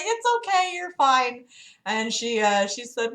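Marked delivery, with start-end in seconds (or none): 0.0-1.4 high-pitched reassurance; soothing. Retold or imitated. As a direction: tell an upset caller not to worry, pitched up. Acts out soothing the old lady.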